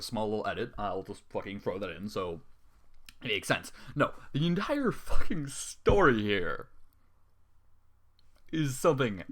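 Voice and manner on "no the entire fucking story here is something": slow, drawn-out, fed-up outburst; exasperated rant. Real, not acted. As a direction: lean on every word, sick of it. Ranting about editing the story.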